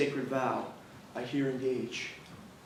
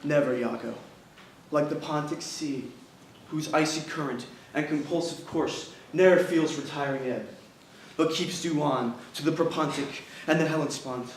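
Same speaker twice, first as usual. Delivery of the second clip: grim vow. Acted. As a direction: swear it darkly. Othello swears a vow.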